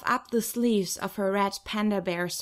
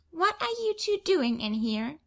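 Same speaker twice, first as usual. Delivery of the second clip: put-on higher, bossy child demanding; bossy little girl; 8 semitones higher than usual. Little sister catching them in the bathroom, a bossy child. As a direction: scold like a tiny boss. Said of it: "stamps her little fists on her hips".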